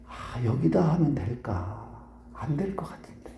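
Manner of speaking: slow, low murmur sinking to a whisper; doubtful musing. Retold or imitated. Preacher thinking aloud while passing a new shop, doubtful musing. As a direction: wonder softly to yourself, trailing into whispered doubt.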